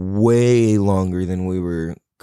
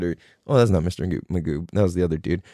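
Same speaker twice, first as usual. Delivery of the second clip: ordinary talk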